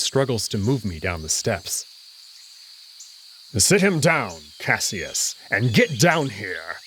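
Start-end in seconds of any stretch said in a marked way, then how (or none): 3.6-6.8 commanding order. Acted. Kato orders Cassius.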